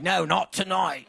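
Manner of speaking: slow, laughing put-on English accent; lightly playing the clown's English accent; mock English accent. Comic imitating the clown host in a mock English accent. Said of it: "he was using an accent".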